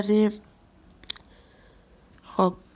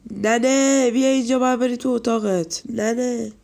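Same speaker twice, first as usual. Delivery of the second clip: mock stern call; 3 semitones higher than usual. Calling Granny to her room.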